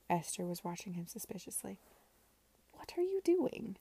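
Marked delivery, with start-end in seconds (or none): 2.7-3.8 high, voiced sister demanding an answer; suspicious sister. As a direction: catch him in the act. Esther catches him searching.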